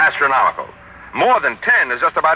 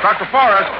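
raised, higher calls across a crowd; calling out; 5 semitones higher than usual. Acted. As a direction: call out to catch the doctor's attention. Reporter calling to doctor in crowd.

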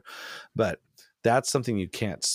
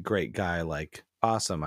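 sarcastic. Shown as a demonstration. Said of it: "I'm being sarcastic when I say that".

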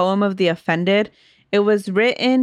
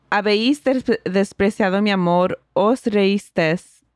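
measured Spanish poem recital; poem reading; 2 semitones higher than usual. Acted. Podcaster reading Spanish poem to co-host, recital. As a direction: read the verses aloud in a steady, sustained flow.

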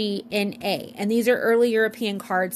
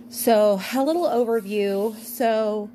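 yawning. Real, not acted. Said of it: "guys, I'm yawning".

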